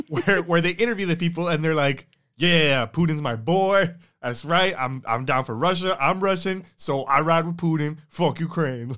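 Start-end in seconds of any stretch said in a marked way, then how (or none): 2.4-8.9 loud, emphatic mock endorsement; mock gung-ho supporter. Imagined Russian interviewee backing Putin to the camera, mock gung-ho. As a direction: play a proud loyalist, louder than usual chat.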